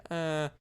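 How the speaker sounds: brief mummy drone as a phone alert; mummy groan imitation. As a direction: mimic the mechanical mummy groan. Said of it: "that mummy".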